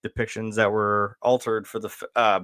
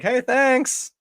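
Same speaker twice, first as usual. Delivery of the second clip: much higher, chirpy imitation; mock cheery thanks; 13 semitones higher, 4 dB louder than usual. Handcuffed girl thanks the cop, much higher and chirpy. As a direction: sing out a bright little thank-you. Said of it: "she's like".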